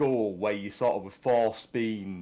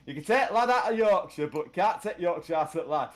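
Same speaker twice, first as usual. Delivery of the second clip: exaggerated Yorkshire; 4 semitones higher, 3 dB louder than usual. Jokey exaggerated Yorkshire saying.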